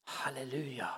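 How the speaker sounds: breathy unvoiced hallelujah under the breath; whispered hallelujah. Real, not acted. Preacher whispering praise between sermon points. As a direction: murmur it to yourself, almost silent.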